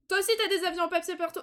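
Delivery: fast, high, loud laughing complaint; amused fast outburst; laughing exasperation. Real, not acted. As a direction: blurt it out while laughing. Laughing at game bug.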